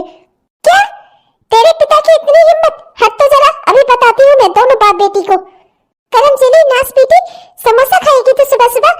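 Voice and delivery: shrill-edged furious mother scolding; furious stepmother. Acted. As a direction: tear into the girl with outrage. Stepmother flies into a rage.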